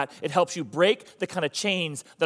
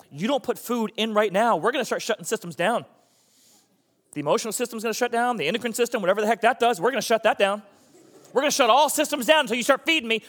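high, mounting tirade from a hungry body; threatening stomach; 6 semitones higher, 4 dB louder than usual. Acted. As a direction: build from a warning to a loud, high ultimatum. Stomach threatens the person fasting.

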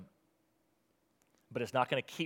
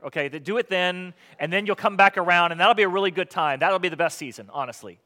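sarcastic; 3 semitones higher, 5 dB louder than usual. Acted. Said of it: "overly sarcastic".

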